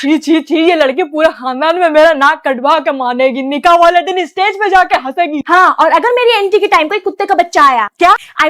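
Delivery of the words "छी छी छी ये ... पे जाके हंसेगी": loud, disgusted tut-tutting mother; disgusted scolding. Acted. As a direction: scold her loudly in disgust. (घिन से ज़ोर से डाँटती माँ)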